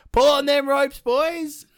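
loud, high yell; yelled order. Acted. Maui yells at his brothers to pull the ropes, loud and high. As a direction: shout the command to the brothers. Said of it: "Then Maui yelled".

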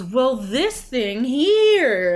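slow, loud, drawn-out imitation of a dodger; imitated slow, emphatic sidetrack; mock deflection. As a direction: stretch it out as you mimic someone changing the subject. Mimics an opponent changing the subject.

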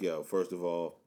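low, soft mock Mexican accent; a hint of Konnan's Mexican accent; imitating Konnan. Quoting a wrestler's interview in a lightly mocked Mexican accent. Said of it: "you talked in an accent".

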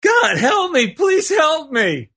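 acted high-pitched plea for help; hammed-up cry to the heavens, drawn out at the end. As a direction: play a desperate climber calling up to God. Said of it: "cried out".

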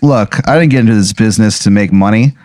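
unvoiced whisper; whispered quote. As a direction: whisper it like a secret confession. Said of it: "and she goes".

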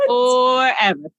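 slow, wailing mock sob; fake crying. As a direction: drag it out in a fake cry. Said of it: "fake cry like this".

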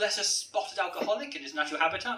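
lightly voiced nature documentary narrator; a hint of wildlife-film commentary; David Attenborough. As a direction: narrate as if observing a rare animal. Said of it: "a bit like David Attenborough".

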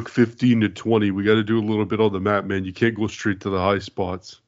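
Brett impression. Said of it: "it did sound like Brett".

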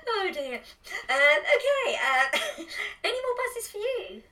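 very high, squeaky through laughter; high pitched. Real, not acted. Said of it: "that was really high pitched".

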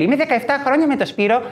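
a hint of a naive girl; dreamy girl. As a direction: say it like a sweet innocent girl. Nefeli character voiced.

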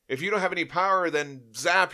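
quick, high taunting strike; gleeful taunt. Retold or imitated. Glorian destroying the Shaper, fast high gleeful taunt. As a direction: snap it out as a sudden attack.

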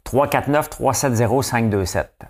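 slow, clear number dictation. Shown as a demonstration. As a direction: read the digits slowly and clearly. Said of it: "regardez cette séquence de numéros-là".

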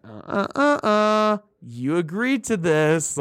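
high, slow mock threat; hammy villain on a screen; mock creepy villain voice. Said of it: "He's like".

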